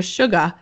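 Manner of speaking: "sugar" with the final R dropped, like "shugah"; Southern non-rhotic. Shown as a demonstration. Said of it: "areas of the South where it's".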